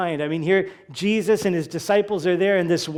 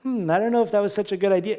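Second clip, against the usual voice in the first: casual idle doubt; much faster than usual. Retold or imitated. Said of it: "not just like".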